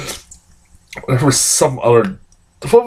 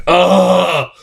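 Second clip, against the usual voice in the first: disgusted groan; 4 semitones higher than usual. Retold or imitated. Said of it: "being an audible groan".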